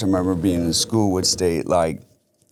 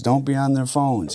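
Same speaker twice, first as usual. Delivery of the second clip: mock parent yell; 8 semitones higher than usual. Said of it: "parents yelling at their kids".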